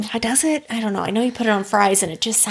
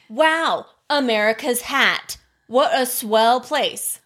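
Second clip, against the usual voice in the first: put-on Canadian accent; slower than usual. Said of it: "what was that accent?".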